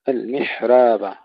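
"المحراب" with a thin ra and an open a, slow; thin the ra of "المحراب", no tilting of the a; light ra. Shown as a demonstration. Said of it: "الراء مرققة والألف مفتوحة". ("المحراب" بترقيق الراء وفتح الألف)

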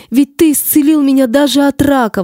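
anguished exclamation. Acted. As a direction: cry out in despair. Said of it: "воскликнула она".

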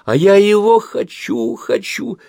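put-on high, slow whining little girl; child insisting, voice cracking high; whiny child tantrum. A narrator's reading. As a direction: stamp your foot, demanding it. Child tantrum over red dress.

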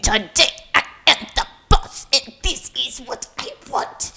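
bossy, hammed-up French-German accent; a botched Napoleon-style French accent, bossing people about; muddled French-German accent. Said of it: "Was that French? That was the accent".

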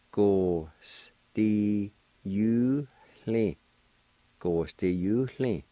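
"hle" said with an audible breathy H; Cherokee with faint H. Shown as a demonstration. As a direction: breathe the H into "hle" of "Go, sti, you, hle". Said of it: "there's a faint H sound, like this".

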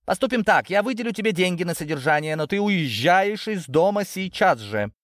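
high, forceful pronouncement; stern ultimatum. A narrator's reading. Ginzburg sending Natasha out of the house, stern. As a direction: lay down the order, slowing at the end. Father throwing daughter out.

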